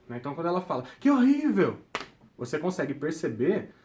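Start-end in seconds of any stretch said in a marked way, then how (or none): 1.0-1.8 grito agudo e forte de espanto em "Que horrível!"; exclamação de horror. Shown as a demonstration. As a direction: exclame "Que horrível!" bem alto, chocado. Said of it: "a gente consegue perceber pela entonação da pessoa". ("Que horrível!" exclamado com espanto, mais alto e agudo)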